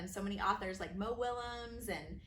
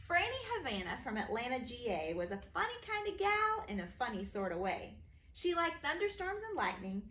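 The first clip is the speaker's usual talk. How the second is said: bouncy, sing-song rhyme reading; rhyming read-aloud; 2 semitones higher than usual. A narrator's reading. Author reading her rhyming book to kids, bouncy.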